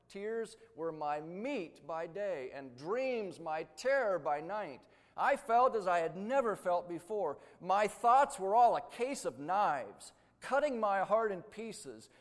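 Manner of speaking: loud, emphatic recitation of agony; agonized quote. Retold or imitated. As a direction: read another man's anguish out forcefully, stretching key words. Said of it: "he described this agony".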